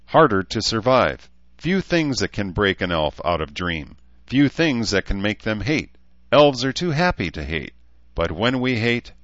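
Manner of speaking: a hint of a matter-of-fact elf woman; lightly voiced blunt elf. Elf counselling a rape survivor, lightly voiced blunt elf.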